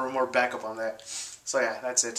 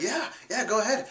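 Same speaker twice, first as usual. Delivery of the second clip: much higher, hurried fake cheer; mock cheer; 10 semitones higher than usual. Narrator pretending it is fine, high mock cheer. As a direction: wave them on with put-on brightness. Narrator voicing his forced reply.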